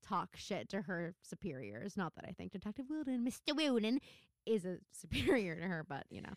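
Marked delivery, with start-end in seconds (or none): 3.2-4.0 light mock Cockney; Cockney accent. Correcting herself on the officer's name, light mock Cockney. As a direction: slip briefly into playful Cockney. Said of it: "had to be done in a Cockney accent".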